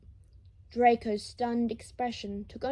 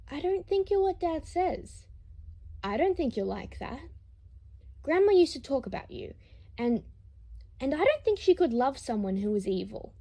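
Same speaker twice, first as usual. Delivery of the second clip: put-on earnest child; 5 semitones higher, 3 dB louder than usual. Scorpius speaks to grandfather.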